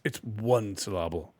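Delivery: "syllable" stressed on the middle, sil-LAH-ble; mispronounced syllable. Acted. Correcting a friend on a name, "syllable" said sil-LAH-ble. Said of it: "What was that you just said it was?".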